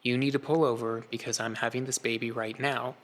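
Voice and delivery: understated, unhurried and matter-of-fact; calm. Retold or imitated. Wife to husband between contractions, very calm. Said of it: "she just very calmly looked over at me and said".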